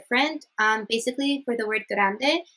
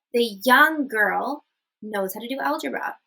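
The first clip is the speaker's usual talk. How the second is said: put-on "young" raised as the key word; stress on young. Shown as a demonstration. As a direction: lean on "young". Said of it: "we're emphasizing on the fact that this girl is young".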